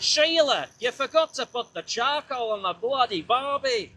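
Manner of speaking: high-pitched, hammed-up Aussie holler; terrible Australian accent. Rider scolding imaginary Sheila about the barbie, mock Australian accent. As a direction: play a badly faked Australian calling his Sheila. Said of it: "Australian accent".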